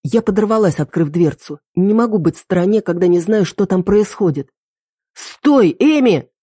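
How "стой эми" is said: громкий высокий окрик; остановить её криком. A narrator's reading. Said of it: "закричал Рик". (Рик кричит Эми вслед)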